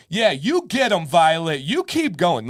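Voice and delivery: high mock cheering yell; yelling mom. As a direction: egg a kid on like a sideline mom. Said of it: "the other girl's mom yells out".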